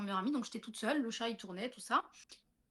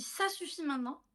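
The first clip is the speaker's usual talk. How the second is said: stern rebuke; 5 semitones higher than usual. Retold or imitated. To the cat just before the voice, firm rebuke. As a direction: scold the cat once more. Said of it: "au moment où je dis".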